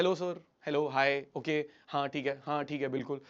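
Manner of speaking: mildly meek and compliant; respectful, seeking rapport. Acted. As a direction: answer a superior obediently. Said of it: "बड़ी respect से बात करते हो".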